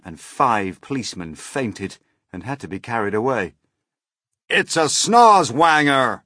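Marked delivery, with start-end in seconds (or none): 4.5-6.2 high, loud, slow cry; alarmed cry. A narrator's reading. Police chief spotting a strange creature, alarmed cry. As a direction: cry out the monster's name in alarm. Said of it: "cried the chief of police".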